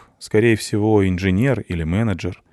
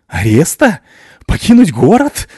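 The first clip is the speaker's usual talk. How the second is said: mocking laugh; 10 semitones higher, 9 dB louder than usual. A narrator's reading. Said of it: "расхохотался мужчина".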